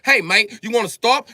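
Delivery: high, polite British voice asking him to stop; a cheeky high English "mate"; mock British accent. Britain politely asking Germany to stop, in a high mock British accent. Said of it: "Britain was like".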